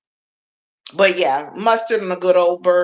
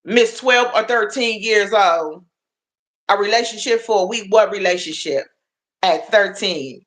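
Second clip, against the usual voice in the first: auntie scolding; 3 semitones higher than usual. Real, not acted. A hint of auntie quizzing a young viewer about her boyfriend. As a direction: quiz her like a nosy auntie would. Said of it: "I'm talking like I'm your auntie".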